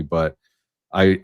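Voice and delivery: ordinary talk, nothing marked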